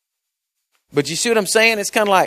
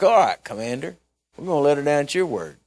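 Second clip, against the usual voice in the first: a little testy; 2 semitones lower, 4 dB quieter, faster than usual. Retold or imitated. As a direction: give in with mild sarcastic irritation. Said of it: "I might have been a little testy".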